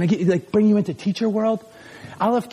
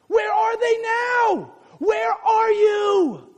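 high, slow desperate cries for lost friends; preacher voicing David's lonely lament; anguished shout; 9 semitones higher, slower than usual. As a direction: call out into the empty cave, pleading. David crying out alone in cave.

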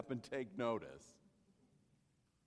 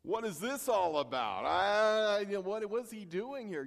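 shocked Israelite; 3 semitones higher, 8 dB louder than usual. Retold or imitated. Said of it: "that would have made you go".

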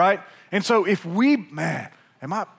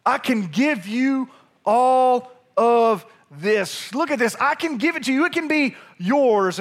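acted tempter, pitched up and urgent; higher, pressing sales pitch; tempting offer; 5 semitones higher, 3 dB louder than usual. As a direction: sell the offer eagerly, voice climbing. Satan offering Jesus the world.

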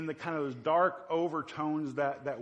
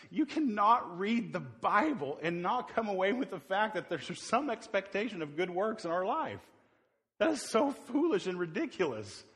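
heated rebuttal; 3 semitones higher than usual. Real, not acted. Preacher rebuts with rising heat.

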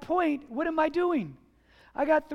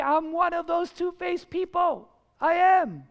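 emphatic confession; 4 semitones higher, 4 dB louder than usual. Real, not acted. Pastor confessing his own hypocrisy.

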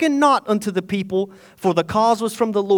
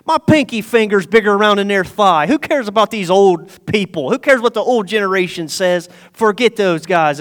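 lightly mocking, punchy boast; mocking young men. Young guys making fun of the old generation, mild mockery. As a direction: scoff at the old folks, mildly hammed-up. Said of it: "the young guys make fun of him".

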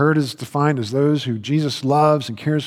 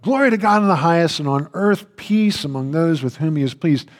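higher, louder, quick burst of praise; angels praising; 4 semitones higher, 4 dB louder than usual. Acted. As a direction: burst into praise like a heavenly host. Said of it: "they start, you know, singing".

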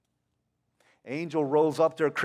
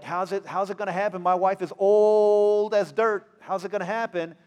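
put-on old man complaining; 3 semitones higher, 3 dB louder than usual. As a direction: drag it out like an indignant old man. Zechariah doubting the angel.

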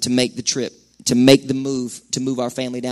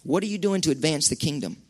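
asked again much softer; quiet repeat; 8 dB quieter than usual. Acted. Preacher pressing the congregation personally, quiet and searching. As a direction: let the question sink in, hushed.

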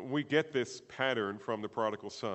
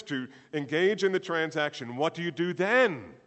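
loud preaching, climbing higher into rhetorical questions; full-force preaching; 8 semitones higher, 12 dB louder than usual. Real, not acted. Preacher setting up next week's forgiveness message, full-force preaching. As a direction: build it into forceful, ringing questions.

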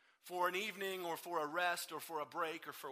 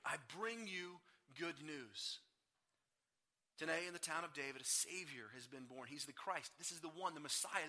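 gentle angel; 4 semitones lower, 7 dB quieter than usual. Retold or imitated. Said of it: "the angel of the Lord says".

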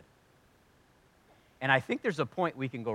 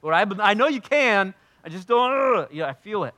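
earnest prayer; 6 semitones higher, 8 dB louder than usual. Retold or imitated. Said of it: "I pray this prayer".

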